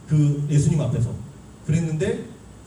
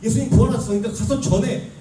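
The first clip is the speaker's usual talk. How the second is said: thrilled, higher-pitched announcement; excited angel; 6 semitones higher than usual. Acted. Angel bringing disciples news of the resurrection, excited. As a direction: burst out with joyful news, pitched up. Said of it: "천사들이 지금 신나게 나타나서".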